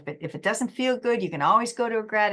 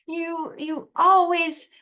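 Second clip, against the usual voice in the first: mock fact fight; 10 semitones higher, 5 dB louder, slower than usual. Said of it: "fact fight".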